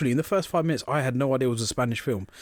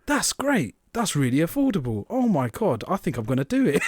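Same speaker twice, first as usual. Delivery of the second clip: bad advert acting; 3 semitones higher than usual. Man on the phone accepts the offer, hammy advert acting. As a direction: act convinced, and act it badly. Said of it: "This is the worst acting".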